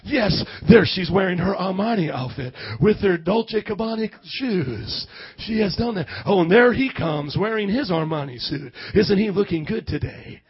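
loud, hammed-up announcer gush; mock red-carpet commentary. Churchgoers narrating outfits like a red carpet, mock gushing. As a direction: call it like a fashion show host. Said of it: "we're like".

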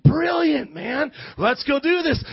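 eager shout of a sudden idea; excited. Retold or imitated. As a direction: blurt it out thrilled. Boy retells his clever idea.

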